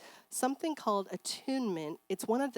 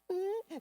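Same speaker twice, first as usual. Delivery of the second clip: fussy whimper; 12 semitones higher, 4 dB quieter than usual. Retold or imitated. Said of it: "Zoe's like".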